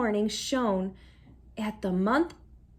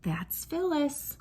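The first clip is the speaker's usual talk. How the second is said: resigned; 3 semitones higher, 6 dB quieter, slower than usual. A narrator's reading. Mother's resigned refrain.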